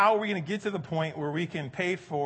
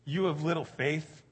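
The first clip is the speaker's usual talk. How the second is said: gentle rebuke. Retold or imitated. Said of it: "And then he says".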